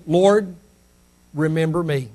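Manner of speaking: soft, low plea; simple plea. Retold or imitated. Dying thief to the Lord, simple quiet plea. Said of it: "just simply said".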